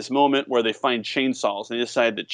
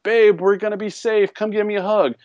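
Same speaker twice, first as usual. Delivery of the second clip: hammed-up hero; 8 semitones higher, 3 dB louder than usual. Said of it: "and he's like".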